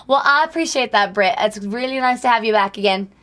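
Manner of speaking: put-on lingering light British accent; a faint British accent fading out. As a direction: keep a hint of British in the thank-you. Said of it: "I think my accent's done now".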